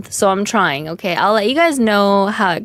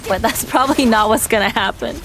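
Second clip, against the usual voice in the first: amused admission with a chuckle; laughing. Real, not acted. Streamer admits to chat her hopes are unlikely, laughing. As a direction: laugh breaking into the words.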